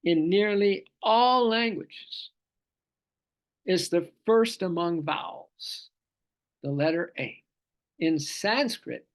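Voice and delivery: weighty, measured teaching read-aloud; deliberate commentary reading. Real, not acted. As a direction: read scripture commentary phrase by phrase.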